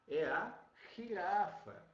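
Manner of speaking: girafa with a throaty Spanish start; Spanish jirafa demo. Shown as a demonstration. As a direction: rasp the first sound of girafa. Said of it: "olha aqui, ó".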